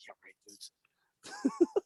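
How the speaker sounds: slow, drawn-out disbelief; mock a kid's answer; sarcastic. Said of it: "and I'm like".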